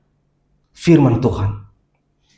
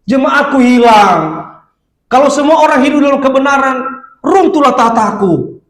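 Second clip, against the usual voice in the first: mock crying devil; 8 semitones higher than usual. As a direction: lament like a defeated devil. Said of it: "Nangis dia". (iblis meratap pura-pura menangis)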